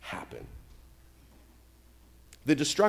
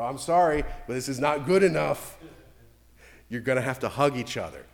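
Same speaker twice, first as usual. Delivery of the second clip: stern parent. Retold or imitated. Parent firmly correcting children.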